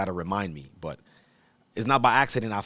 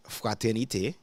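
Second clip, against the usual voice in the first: fraternité said with a French accent; French pronunciation. Shown as a demonstration. Teacher reading the dictionary's Old French word aloud, French pronunciation. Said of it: "I'm gonna say it in French".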